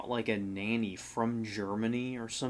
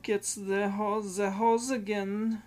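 much higher, louder shrill-free mock nanny voice; German nanny impression; 11 semitones higher, 4 dB louder than usual. Cohost joining the bit as the nanny, high hammed-up voice. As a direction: squeal out the nanny's demand. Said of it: "strict German nanny".

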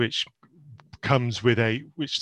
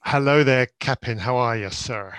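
bad pirate accent. Guest greets the host in a bad pirate accent. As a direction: greet the host like a half-hearted pirate captain. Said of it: "If that was a pirate accent".

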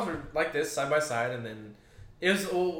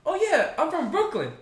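put-on Brooklyn accent; 7 dB louder than usual. Retelling his drunk friend's Brooklyn character, a high put-on Brooklyn accent. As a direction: mimic a buddy's hammed-up Brooklyn accent, pitched way up. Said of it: "my Brooklyn accent".

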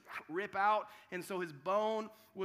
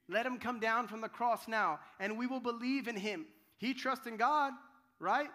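mild mockery; 3 semitones higher, 4 dB louder than usual. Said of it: "they mocked him".

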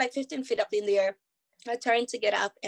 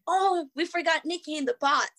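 higher-pitched imitation of an alarmed crew; mock sudden realization; 6 semitones higher than usual. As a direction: act out an oops moment. Crew's sudden realization, acted out.

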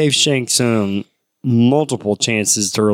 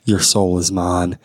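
slow theatrical villain menace; 5 semitones lower, slower than usual. Retold or imitated. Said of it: "pretty cringy or, like, just scary".

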